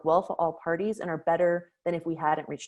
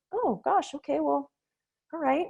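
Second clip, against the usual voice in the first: much higher, flustered mom voice; 8 semitones higher than usual. Retold or imitated. Mother taken aback by daughter's complaint, high and flustered. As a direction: caught off guard, fumbling for words.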